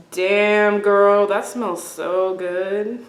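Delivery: slow, stretched-out imitation of a flirting guy; mock admiring come-on. Imitating the guy admiring her perfume, slow mock come-on. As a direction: draw out a lightly mocked pick-up line.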